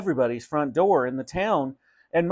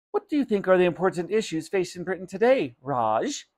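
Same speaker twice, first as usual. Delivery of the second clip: self-satisfied; 5 semitones higher than usual. Acted. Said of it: "delighted with the cleverosity".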